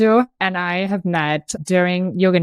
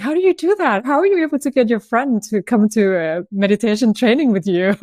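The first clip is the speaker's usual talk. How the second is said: high-pitched, playful disbelief; lightly hammed-up astonishment; mock amazement; 4 semitones higher, faster than usual. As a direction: retell it as an incredulous, admiring question. Retells own amazed question to friend.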